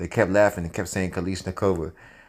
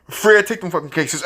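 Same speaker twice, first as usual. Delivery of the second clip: higher, louder, laughing through it; laughing urgent plea; 6 semitones higher, 4 dB louder than usual. Retold or imitated. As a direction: push Fred through a laugh. Urging Fred while laughing.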